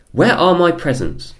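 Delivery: loud, high panicked scream. Acted. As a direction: scream it in outrage. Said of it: "she screamed".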